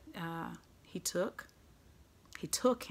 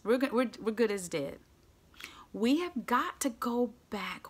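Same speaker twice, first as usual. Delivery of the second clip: urgent pleading. Acted. Acted son pleading with father.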